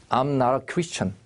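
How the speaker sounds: "not a" linked as "nara", T softened to an R-like tap; flapped T in "not a". Shown as a demonstration. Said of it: "real처럼 발음하면 돼요".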